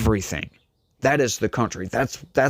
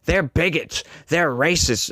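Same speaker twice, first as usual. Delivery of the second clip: higher-pitched mocking giddy complaint; 5 semitones higher than usual. Host mimicking critics of Republicans, mock giddy. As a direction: imitate a giddy accuser, pitched up. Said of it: "you might get all giddy and say".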